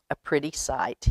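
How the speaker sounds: a meek dog answering the mother cat humbly. A narrator's reading. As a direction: say it meekly, almost shy. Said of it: "he said humbly".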